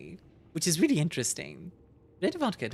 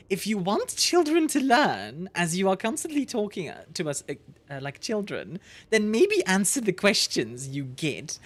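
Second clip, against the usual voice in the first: annoyed lecture; 2 semitones higher than usual. Real, not acted. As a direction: spell it out like a fed-up teacher. Ranting at the alien.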